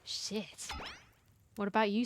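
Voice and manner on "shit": breathy whispered swear; whispered curse. Real, not acted. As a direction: curse under your breath. Reacts to the character's response.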